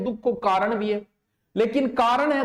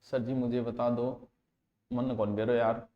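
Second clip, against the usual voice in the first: whiny student voice; 7 semitones lower, 7 dB quieter than usual. Acted. Student voice in classroom skit.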